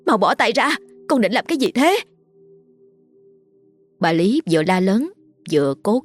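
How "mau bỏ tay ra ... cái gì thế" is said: panicked mother, pitch climbing line by line; alarmed yelling. Acted. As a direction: urgently order your child to stop, voice rising. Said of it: "nên gào lên". (giọng mẹ hoảng hốt gào lên, cao dần)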